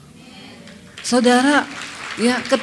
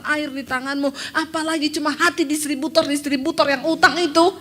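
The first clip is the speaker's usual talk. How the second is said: retold prayer; 4 semitones higher than usual. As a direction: beg God, building to the plea. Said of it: "Saya berlutut di kaki Tuhan". (doa memohon, makin tinggi dan keras)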